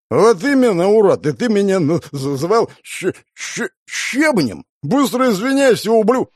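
furious stammering shout; angry yell. Acted. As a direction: spit the insults out. Angry swordsman yelling at stranger. (злобный крик)

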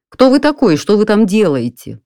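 furious homeowner demanding who is there; angry shout. A narrator's reading. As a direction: yell the question at the burglar. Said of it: "сердито вскричал я".

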